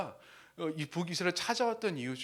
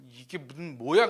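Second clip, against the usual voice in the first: mock indignant outburst, louder; angry; 8 dB louder than usual. Preacher voices Naaman walking off, acting annoyed. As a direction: act out an annoyed protest. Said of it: "하면서 막 화내면서".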